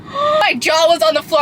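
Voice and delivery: gasp, then blurt it out in shock. Real, not acted. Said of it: "I was shocked".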